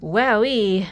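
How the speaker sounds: delighted wow. Real, not acted. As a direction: marvel out loud. Amazed at heavy slider.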